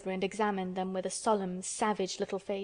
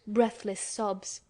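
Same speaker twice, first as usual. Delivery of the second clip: ordinary delivery, nothing marked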